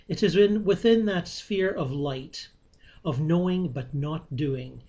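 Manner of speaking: measured, fluent read-aloud of an essay; formal text reading. Real, not acted. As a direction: read it out steadily, phrase by phrase. Reads written text aloud.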